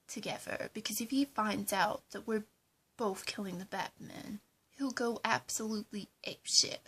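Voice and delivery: normal talking voice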